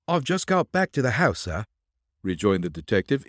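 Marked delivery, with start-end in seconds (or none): 0.1-1.6 higher-pitched put-on Yankee twang. A narrator's reading. Disguised detective answers the colonel in an imitated Yankee twang. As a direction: put on a coachman's Yankee accent. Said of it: "imitating Gilder's Yankee twang".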